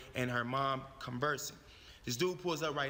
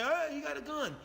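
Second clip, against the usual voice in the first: imagined yell; 11 semitones higher than usual. Retold or imitated. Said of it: "He didn't scream or say".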